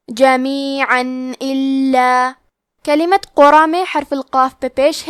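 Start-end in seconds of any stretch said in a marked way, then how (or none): 0.1-2.3 جمیعاً الا very slow, tanween said as a clear nun with no ghunna; clear nun, no nasal. Shown as a demonstration. Teacher demonstrating izhar to students, slow. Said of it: "بغیر غنہ سے یہ حکم کو ادا کریں گے".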